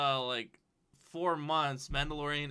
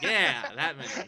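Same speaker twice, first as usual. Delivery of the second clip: laughing; 6 dB louder, slower than usual. Retold or imitated. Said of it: "Yeah, like, like".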